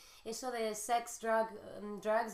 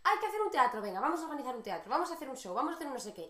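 lightly voiced eager kid rallying her siblings; hint of child coaxing siblings; bossy little girl; 4 semitones higher, 4 dB louder, much faster than usual. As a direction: mildly imitate a child pushing a play. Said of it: "era como".

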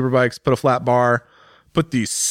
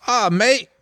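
higher-pitched, badly faked Irish greeting; attempted Irish accent; 10 semitones higher than usual. Rider quoting his colleague's invite, attempted Irish accent. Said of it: "That's not the right accent, but you know, Irish accent".

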